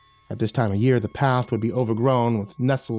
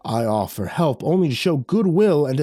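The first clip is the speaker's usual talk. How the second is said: the traveller king, bristling at the insult; the gypsy king rebuking the villager over money, offended; 7 semitones higher than usual. A narrator's reading. Gypsy king voiced by narrator.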